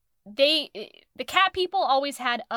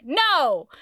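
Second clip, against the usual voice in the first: emphatic retold "no", a bit louder; hammed-up flat-out rejection; mock refusal; 3 semitones higher, 5 dB louder than usual. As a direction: refuse point-blank, playfully acted. Voicing heroine refusing the mate.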